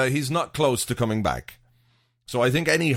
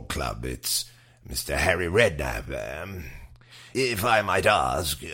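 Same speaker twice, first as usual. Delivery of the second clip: low, measured interview voice; spoof radio interviewer; 6 semitones lower, slower than usual. Pretend. Host questioning an expert about Redknapp's twitch, mock-serious interviewer. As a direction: ask it with mock broadcast seriousness.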